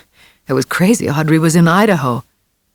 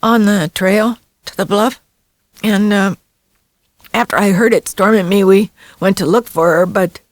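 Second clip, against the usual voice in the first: put-on high, shaken child's voice; lightly voiced frightened boy; 5 semitones higher than usual. A narrator's reading. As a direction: tell it like a scared kid. Boy continues story.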